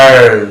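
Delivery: "আর্ল" drawn out, tongue held up on the l; correct pronunciation. Shown as a demonstration. Teacher models the letter L for learners, corrected pronunciation. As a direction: stretch "আর্ল" and hold the final l against the palate. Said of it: "তার উচ্চারণ হবে".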